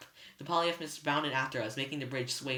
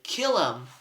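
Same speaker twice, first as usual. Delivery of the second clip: urgent yell; 3 semitones higher, 8 dB louder than usual. A narrator's reading. Clarice demanding the kill.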